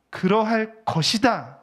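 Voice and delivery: Jesus answering with slow, solemn authority. Acted. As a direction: pronounce it slowly like a decree. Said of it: "라고 하셨는데".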